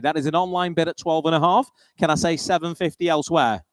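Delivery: brisk auctioneer calling bids. Acted. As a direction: call the bids like a sale-room auctioneer.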